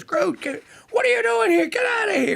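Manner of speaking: hammed-up alarmed yell at a little creature; urgent retold yell. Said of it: "looks at him and goes".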